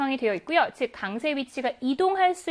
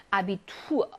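아비투어 with the stress on the final 우어; 5 semitones lower, slower than usual. Shown as a demonstration. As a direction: land the stress on the ending of 아비투어. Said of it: "우어로 끝나는 경우는 항상 자기 자신이 후철 강세".

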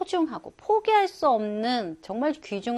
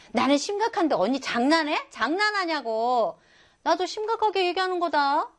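mildly indignant, pitched up at the end; indignant protest; 6 semitones higher than usual. Acted. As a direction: protest to an older sister that this is serious. 동생이 언니에게 따지는 장면. (언니에게 살짝 발끈해 따지듯)

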